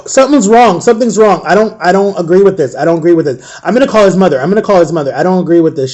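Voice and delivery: mildly agitated retold protest; worked-up objection, lightly acted; upset cashier. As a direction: repeat it insistently, imitating an upset cashier. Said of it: "she was getting, like, so upset".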